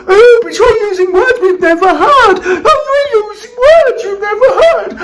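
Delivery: lightly high mocking whine; mocking complainers. Host mimics critics of new words, sneering mock whine. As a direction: parrot their complaint, sneering. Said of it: "And then you all go".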